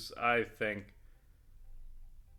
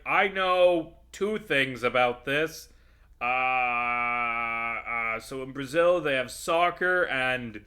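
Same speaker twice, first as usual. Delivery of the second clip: a dim writer's voice, slow and a bit louder; mock lazy writer; 2 semitones higher, 4 dB louder than usual. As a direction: lampoon the clueless writers' pitch. Parodying lazy Simpsons writers.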